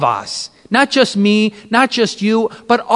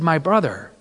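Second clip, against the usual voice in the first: low, soft, grave pronouncement; hushed, sorrowful gentle rebuke; voice of Jesus; 6 semitones lower, 6 dB quieter than usual. Retold or imitated. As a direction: speak quietly down, with long pauses. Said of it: "And he said".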